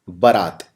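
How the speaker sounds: बरात said as ba-raat, short first vowel with no aa; बरात read low and slow, short ba then long raat; misspelled form read out. Shown as a demonstration. Teacher sounding out the misspelled word बरात as ba-raat. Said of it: "इसमें जो बै के बाद आ की मात्रा है ये नहीं आती".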